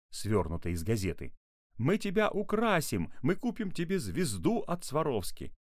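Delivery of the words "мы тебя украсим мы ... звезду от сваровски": high, pleading call across a distance; shouting through megaphone. A narrator's reading. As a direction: call out promises to a fugitive. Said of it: "кричал папа в мегафон".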